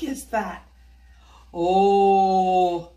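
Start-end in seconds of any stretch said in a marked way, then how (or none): 1.5-2.9 put-on old woman. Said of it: "the old woman explained".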